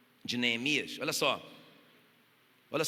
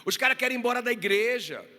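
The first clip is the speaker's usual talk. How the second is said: fiery preaching; 4 dB louder than usual. Acted. Pastor urging the congregation to stay united, preaching loud and fervent. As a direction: pound each phrase home to the church.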